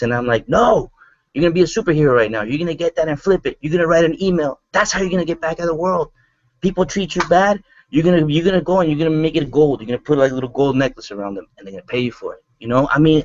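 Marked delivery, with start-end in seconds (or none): 0.5-12.4 higher, fast rallying push; fired-up pep talk. Retold or imitated. Telling a struggling friend to turn pain into gold, fired up. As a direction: pump her up, talk her out of the slump.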